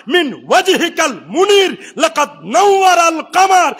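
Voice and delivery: measured recitation building in force; declaimed verse, rising toward the end; Arabic verse recitation. Acted. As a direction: recite praise poetry to a congregation.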